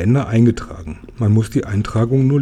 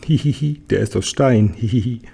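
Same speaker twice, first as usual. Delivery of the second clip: dwarf giggling. Acted. Dwarf giggles at the stone god, lightly giggling. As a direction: titter through the line like a mischievous gnome.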